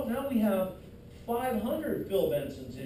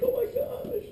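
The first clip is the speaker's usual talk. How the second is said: high, squealing mock thrill; mock excitement; 5 dB quieter than usual. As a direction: gush like a thrilled student. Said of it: "You're like".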